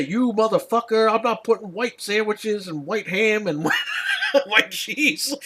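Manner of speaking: laughing mock rant from a made-up clerk; mock outraged clerk. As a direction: ham up a clerk's fake rant while cracking up. Mocking an imagined rude clerk.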